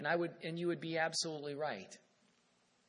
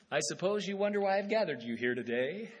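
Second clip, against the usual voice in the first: a hammed-up Ezekiel addressing the bones, with a laugh; mock preacher opening; 6 dB louder than usual. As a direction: play it like a speaker greeting a crowd of bones. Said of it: "I can picture Ezekiel out there preaching to the bones".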